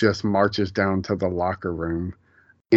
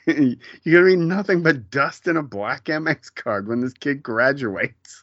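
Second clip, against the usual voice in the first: higher-pitched retold rant; mock tirade, raised pitch, slowing on the last words; imitated angry tirade; 5 semitones higher than usual. Co-host quoting her tirade at him, mock outrage. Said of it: "I do love her screaming at him".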